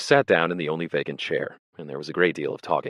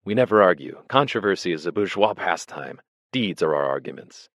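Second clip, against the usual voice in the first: firm; 2 semitones higher than usual. Retold or imitated. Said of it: "would be saying firmly".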